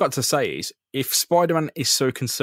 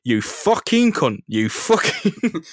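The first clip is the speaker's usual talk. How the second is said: British thug; 5 semitones higher, 4 dB louder, much slower than usual. Pretend. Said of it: "Imagine if Spider-Man was British".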